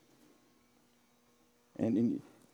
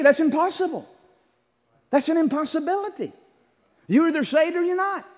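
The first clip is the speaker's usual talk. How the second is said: emphatic rebuttal; 10 semitones higher than usual. Real, not acted. Preacher rejecting the claim.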